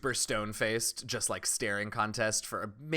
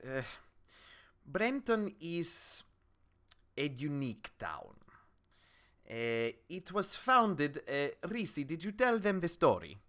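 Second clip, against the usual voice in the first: weary townswoman; 5 semitones higher than usual. Acted. Townswoman sighs before explaining Brenton's history, wearily. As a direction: begin reluctantly, with long pauses. Game master plays townswoman.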